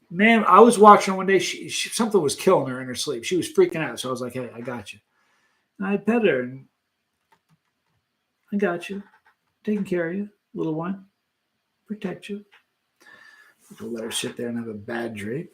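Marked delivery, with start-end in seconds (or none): 4.3-5.0 low, soft comforting voice; soothing reassurance. Retold or imitated. Owner to kitten having a bad dream, gently soothing. 8.5-12.4 soft little comforting phrases with gaps; tender soothing. Retold or imitated. Owner petting kitten through a bad dream, tenderly protective.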